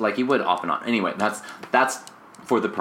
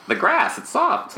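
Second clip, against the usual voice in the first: much higher, light and playful; high teasing voice; 13 semitones higher, slower than usual. Acted. Friend defending Blanche, high mock voice. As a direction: say it like a silly excuse.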